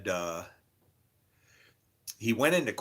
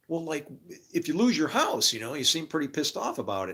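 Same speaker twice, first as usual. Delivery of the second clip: higher-pitched mock Johnny, teasing; imitating Johnny; 5 semitones higher than usual. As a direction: keep needling him in the higher voice.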